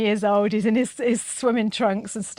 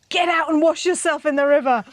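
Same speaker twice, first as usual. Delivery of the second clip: higher-pitched order from a cross grandad; mock scolding; 4 semitones higher than usual. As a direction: play a grandad telling off a kid. Grandad scolding muddy kid.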